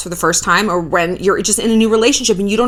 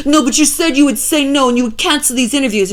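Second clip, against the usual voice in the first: insistent fake European boyfriend; general European accent; 3 semitones higher than usual. Boyfriend demanding she cancel interviews, mock European accent. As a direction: press her in a vague European accent. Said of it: "I don't even know what this accent is, it's just, like, general Europe".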